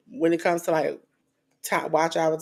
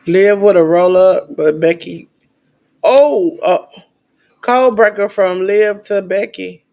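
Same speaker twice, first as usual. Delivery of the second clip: excited commentary; 9 dB louder than usual. Real, not acted. Calling wrestling match live.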